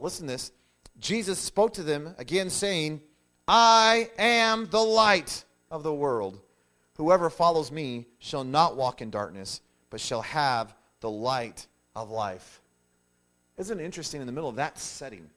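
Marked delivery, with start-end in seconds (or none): 3.5-6.4 loud, high, drawn-out declaration; big, stretched-out preacher's quote; booming proclamation. Acted. Quoting Jesus's proclamation to the crowd. 7.0-12.6 slow, weighty declaration; measured preacher's scripture reading; solemn scripture quote. Acted. Continues Jesus's proclamation, slowly.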